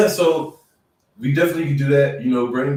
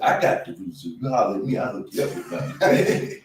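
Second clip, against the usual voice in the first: hustler voice; 4 semitones lower than usual. Retold or imitated. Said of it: "The hustler in me said".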